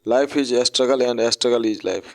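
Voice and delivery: slow, deliberate motto read word by word; slow recitation. Shown as a demonstration. Teacher slowly reciting a motto to open the lesson. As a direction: recite the proverb slowly for the class. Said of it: "slow recited motto opening".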